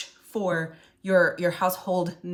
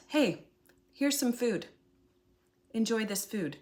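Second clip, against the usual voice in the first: casual, unpushy offer; 3 semitones higher than usual. Acted. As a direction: offer it lightly, no shouting. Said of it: "without, um, just shouting it".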